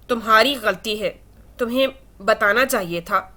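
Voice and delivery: haltingly, word by word; hesitant, tripping over the words; faltering, stop-start blame. Acted. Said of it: "آئلہ رک رک کر بولی".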